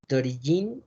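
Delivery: "D'origine" ending on n, no final e; French "D'origine" without the last vowel; silent final e. Shown as a demonstration. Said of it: "la E no se pronuncia".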